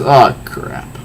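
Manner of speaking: soft whispered oh crap; whispered dread. Acted. Doomed henchman realizing his end, whispered. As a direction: breathe it out in dismay.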